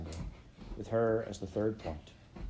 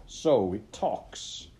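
slow, louder sneer; 5 dB louder, much slower than usual. Acted. Wolf captain mocking the talking rabbit with a sneer. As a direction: drawl it with contempt. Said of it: "the red-eyed captain sneered".

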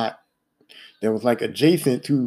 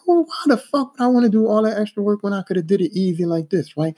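higher-pitched retold protest; mad retelling; 6 semitones higher than usual. Apprentice protesting the extra work, mad. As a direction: push back in a raised pitch. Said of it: "So I'm mad at him again".

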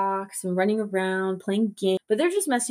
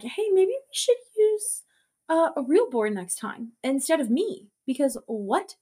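much higher put-on kid voice; Robert joking; 6 semitones higher than usual. Robert quipping to the boys after the attack, high put-on voice. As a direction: squeak it out like the beaten boy. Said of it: "Robert's like".

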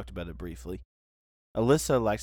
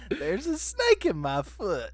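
higher, slow Woody impression; pull string toy; 10 semitones higher, slower than usual. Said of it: "That's his classic line".

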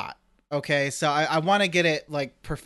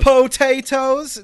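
Gollum potatoes; 9 semitones higher, 10 dB louder, much slower than usual. Retold or imitated. Gollum-style gasp at potatoes.

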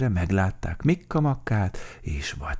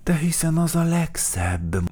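high, fond defense; pleased, raised-pitch reassurance; smiling; 11 semitones higher, 4 dB louder than usual. A narrator's reading. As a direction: say it with a smile in the voice. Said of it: "mosolygott Mikka Makka".

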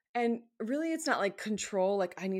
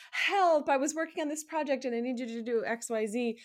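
higher, louder and fast, a hammed-up panic; mock panic; 6 semitones higher, 5 dB louder than usual. Imitating a coworker asking for help at the eleventh hour, mock panic. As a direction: gush it out in a fake panic.

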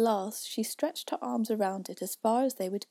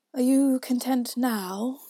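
slow, louder question; challenging Caterpillar; 4 semitones higher, 9 dB louder, slower than usual. A narrator's reading. Caterpillar tests Alice's patience, slow and louder. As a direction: lean on each slow word.

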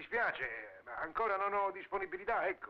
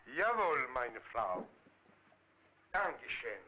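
mock German soldier; 5 semitones lower, much slower than usual. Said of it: "signor Führer".

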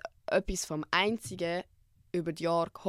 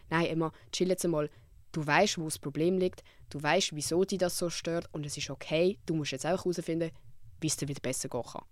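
calming self-talk; 3 semitones lower than usual. Shown as a demonstration. Speaking to herself to calm her worry, reassuring. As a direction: talk yourself down gently. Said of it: "für mich selber kann sagen".

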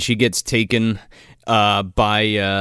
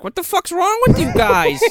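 high-pitched mock outrage; exasperated retold yell, shooting up high; imitated yelling. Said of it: "she's, like, yelling at Crane".

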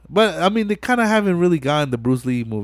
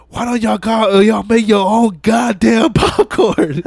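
laughing Vince mock; 8 semitones higher, 5 dB louder than usual. Angry Vince voiced, laughing.

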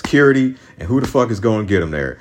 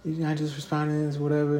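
mock quoted guy; 7 semitones higher, 10 dB quieter than usual. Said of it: "He's like".

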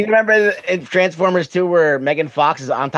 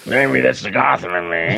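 low, mush-mouthed mumble; a singer's mumble; 4 semitones lower than usual. Acted. Co-host mimics actor's Bruce Wayne voice, mumbled impression. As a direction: mumble it as if your mouth is full. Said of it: "he has, like, this mumble".

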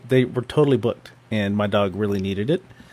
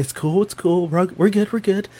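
mock soothing; 6 semitones higher than usual. Soothing his struggling dog while holding it.

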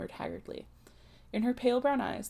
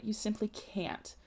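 slow, stunned protest; 4 dB quieter, slower than usual. Acted. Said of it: "Delia incoherently cried".

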